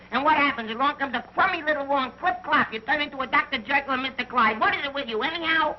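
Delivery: indignant rant. Acted. Private rants at old friend.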